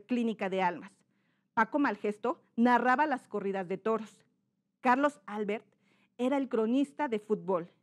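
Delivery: clearly articulated reading, phrase by phrase; correct diction. Shown as a demonstration. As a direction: enunciate each name carefully without exaggerating. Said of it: "¿Cómo sería lo correcto?". (lectura con dicción clara)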